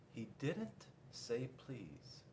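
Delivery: muttered thought. Acted. Panda's sly inner thought.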